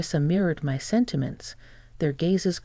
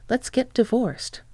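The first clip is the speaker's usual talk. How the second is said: pitched up and slow, firmly declared; firm declaration; 7 semitones higher than usual. A narrator's reading. Wife to father-in-law, firm slow declaration. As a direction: announce the divorce, slow and set. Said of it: "I declared firmly".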